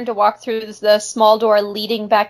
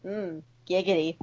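giggity; 2 semitones lower, 12 dB quieter than usual. Pretend. Quagmire catchphrase.

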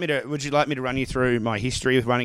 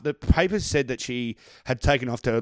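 ordinary delivery

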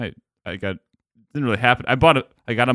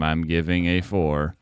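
slow, low monotone verdict; 5 semitones lower, 3 dB quieter, slower than usual. Shown as a demonstration. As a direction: drone it out slowly with no life. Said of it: "monotone voice so I can just talk like this".

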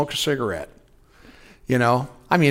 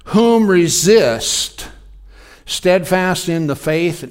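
preaching scripture. Acted. Preacher reading First Peter to the church, booming. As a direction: proclaim each phrase.

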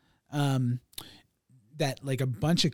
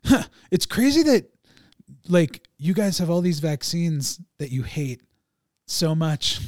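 ancient man voice; 6 dB louder than usual. Retold or imitated. Voicing ancient man in TV show.

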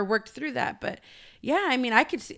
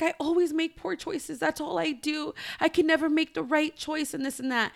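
higher-pitched plaintive lament, no real crying; bawling child, imitated; 5 semitones higher than usual. Mom retelling daughter bawling over poor choices, mildly plaintive. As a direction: lightly imitate a child's despair.

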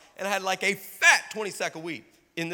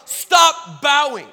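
slow, shouted, louder and higher; shouted command; 8 semitones higher, 11 dB louder, much slower than usual. Acted. Preacher commanding the congregation to quit, shouted. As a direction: bellow each word slowly. Climax of sermon.

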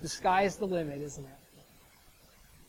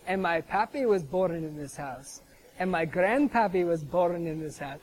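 lightly imitated Scottish accent; a hint of a burly Scotsman; light Scottish-accent retelling. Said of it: "he goes in his Scottish accent".

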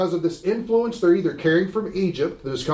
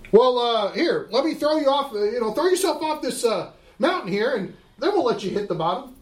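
tempting devil; 6 semitones higher than usual. Acted.

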